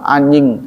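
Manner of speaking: "anjing" said with NY in place of J; Bandung pronunciation. Retold or imitated. Teacher quoting Bandung slang, "anjing" with an NY sound. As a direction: say "anjing" softened to "anying". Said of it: "Kalau di Bandung suka".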